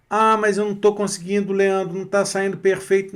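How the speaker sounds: mock student whine; imitating a student. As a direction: play the discouraged learner lightly. Quoting a frustrated student.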